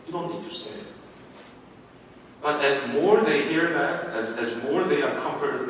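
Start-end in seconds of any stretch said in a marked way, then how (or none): 0.1-0.9 soothing. Retold or imitated. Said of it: "one of the ways that you comfort them is by saying".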